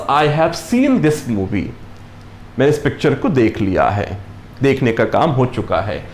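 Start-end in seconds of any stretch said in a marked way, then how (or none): 0.1-1.7 very slow, word by word; slow example read. Shown as a demonstration. Teacher showing the perfect tense example, very slow. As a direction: spell the sentence out slowly for learners. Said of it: "एक sentence".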